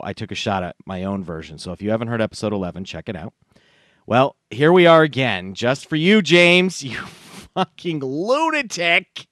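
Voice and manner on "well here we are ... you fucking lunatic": loud, high, hammed-up address; hyped-up dedication. Host dedicating a repeat act to James, mock hype. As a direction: build to a high, drawn-out insult.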